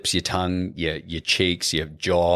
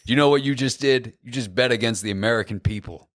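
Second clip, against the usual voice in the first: Brad Pitt impression; 3 semitones higher than usual. Shown as a demonstration. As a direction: bark it like a later-in-life Brad Pitt. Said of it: "pulling Brad Pitt lines out of my ass".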